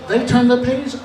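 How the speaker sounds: "They turn the page" pitched high; high-pitched first half of a contrast; leading step. Acted. Others lead, he copies.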